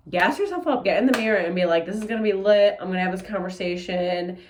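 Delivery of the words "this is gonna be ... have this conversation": pep talk. Retold or imitated. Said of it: "I wanna put emphasis on that".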